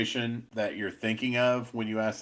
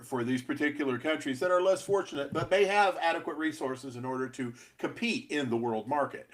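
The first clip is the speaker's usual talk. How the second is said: pompous pundit tone; intellectual voice; 4 semitones higher than usual. Acted. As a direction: put on a learned expert voice. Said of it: "I tried to sound intellectual".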